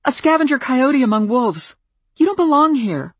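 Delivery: loud, high scornful yell; contemptuous shout. Acted. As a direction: sneer it at her. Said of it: "she snapped".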